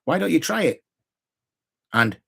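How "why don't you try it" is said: inquisitive. Shown as a demonstration. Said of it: "just by the tone of my voice".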